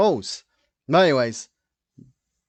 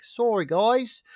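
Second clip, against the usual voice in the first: high, slow mock British; badly faked British accent, drawn out; fake British accent; 8 semitones higher, slower than usual. Host imitating how Kate talks, fake British accent. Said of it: "do a fake British accent".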